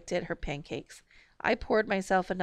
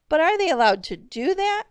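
pitched way up, louder, pleading; a desperate miserable question; 11 semitones higher, 8 dB louder than usual. A narrator's reading. Father asking his family, miserable and pleading. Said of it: "he asked miserably".

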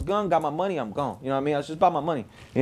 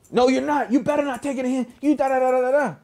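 dealer warning; 6 semitones higher than usual. Retold or imitated. Plug warning him off.

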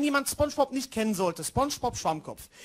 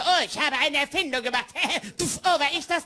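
Steve Urkel impression. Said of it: "Steve Urkel".

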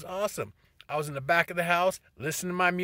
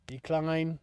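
firm repeat. Real, not acted. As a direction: Decline said again, firmer and fuller. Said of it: "did I just get a phone call".

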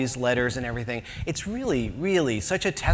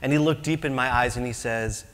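mock preacher; 2 semitones lower, 3 dB quieter than usual. Mock evangelist pitch, hushed.

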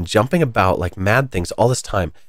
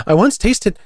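blurted; 12 semitones higher, 4 dB louder than usual. Acted. Alice blurting then checking herself.

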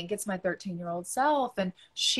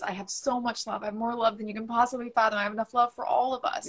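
pleading. Retold or imitated. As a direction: beg her tenderly to stay. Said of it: "I pleaded with her".

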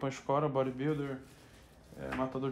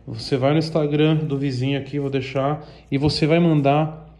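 loud announcement; 6 dB louder than usual. Real, not acted. Announcement to viewers.

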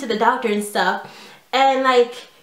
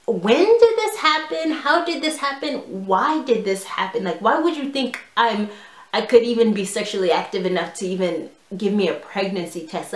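incredulous questions. Retold or imitated. Embarrassed teen questioning mom inwardly.

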